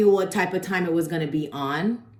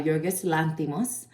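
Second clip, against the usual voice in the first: Yorgos Lanthimos said with a light Spanish accent. Real, not acted. Movie reviewer naming the director in Spanish accent. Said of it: "I don't know why I put a Spanish accent on it".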